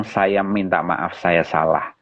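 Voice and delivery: low, slow, subdued apology; quiet retold admission, no arguing. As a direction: admit fault simply, letting the pitch sink. Repeats his apology without explanation.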